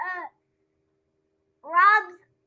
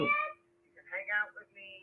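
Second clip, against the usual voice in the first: much lower, faster, playful copy of dad; mock deep dad voice; 13 semitones lower, 12 dB quieter, much faster than usual. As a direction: drop the voice low to mimic dad. Child echoes dad's line.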